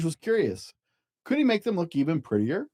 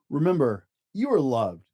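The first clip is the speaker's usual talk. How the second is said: gentle affirmation. Acted. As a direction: tell the child they are loved.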